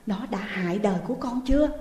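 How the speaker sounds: hurried alarmed question. Acted. Frightened mother asking her daughter, quick and alarmed. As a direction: blurt it out in fear. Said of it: "Bà Giang bỗng hoảng hốt".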